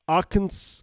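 "Arkansas" begun as AR-kan-s, like the state; tentative "Arkansas", stressed on the first syllable; unsure pronunciation. Real, not acted. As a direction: say "Arkansas" as AR-kən-s, trying it out. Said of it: "I'm never gonna get that right".

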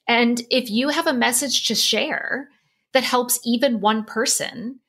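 voicing Oprah's encouragement while moved; tearful. Real, not acted. Guest imagining Oprah's words to her, still tearful. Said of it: "really emotional when I think about this".

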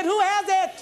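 preacher demanding an answer. Real, not acted. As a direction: call it out to the crowd. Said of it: "I said".

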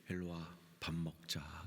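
low, slow, hushed call to come eat; gentle invitation. Acted. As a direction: lightly voice a forgiving master, trailing into breath. Jesus tenderly invites Peter to eat. (나직하고 다정하게 부르는 말투)

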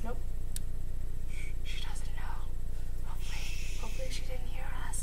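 hushed whisper so she won't hear; whisper, trying not to be overheard. Real, not acted. Hiding from sister nearby.

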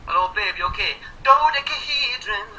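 lightly voiced impression of a singer, on request; singer impression. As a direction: croon it like a boyband singer. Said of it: "sing it for us one more time there".

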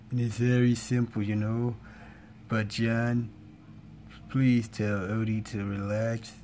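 laid-back cartoon cat on an even tone; Garfield. Cat asks John to calm Odie down, Garfield impression. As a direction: slip back into the level-pitched cat impression. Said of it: "that was my Garfield voice impression".

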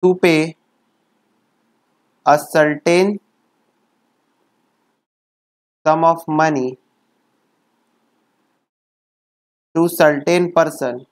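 very slow, word by word with long pauses; slow dictation. Shown as a demonstration. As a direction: dictate each phrase slowly so it can be written down. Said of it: "तुमको ऐसे पढ़ना है".

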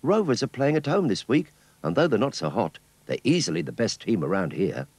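put-on high, keen young boy. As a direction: talk like an excited kid. Skeets talks about the match.

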